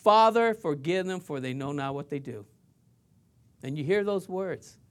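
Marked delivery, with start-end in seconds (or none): 0.0-2.5 praying. Acted. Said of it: "and he's praying".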